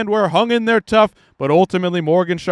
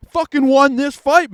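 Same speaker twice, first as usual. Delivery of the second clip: higher and louder, shouting "fucking won"; outraged shout; 8 semitones higher, 5 dB louder than usual. Real, not acted. Commentator protesting the judges' decision, loud outraged shout. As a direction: burst out in disbelief.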